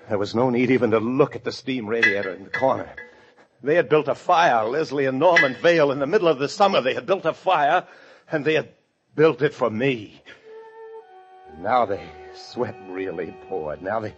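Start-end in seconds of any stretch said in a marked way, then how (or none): 3.6-10.2 raised, loud, agitated horror; horrified realisation. Acted. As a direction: voice climbs as the dread hits. Realises he will be burned.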